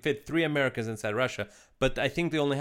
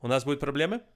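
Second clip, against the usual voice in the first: mild, pleasant Russian question; nice-sounding Russian; 3 semitones higher, faster than usual. Shown as a demonstration. Asked to say the mob line in Russian, nice and mild. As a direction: ask it nicely in Russian, no menace. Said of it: "You made it sound nice".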